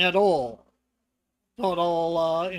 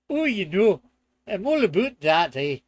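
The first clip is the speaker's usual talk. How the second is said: loud, hammed-up Canadian accent with eh; 7 dB louder than usual. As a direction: play a jokey Canadian, ending on eh. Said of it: "Never did a Canadian accent".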